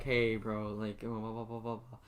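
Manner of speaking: low, soft murmur fading away; mock whispering. Student showing how quietly he talks in class, mock whispering. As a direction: drop to a hushed, low mumble. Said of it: "I be talking whisper".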